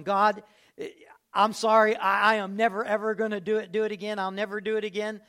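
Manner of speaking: loud pleading promise to God, voice straining; desperate vow. Acted. A sinner in bed at night begging God, loud and pleading. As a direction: beg God out loud, swearing never again.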